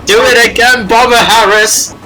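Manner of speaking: high, gleeful cheer. Pretend. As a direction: egg them on with glee. Cheering on a bombing.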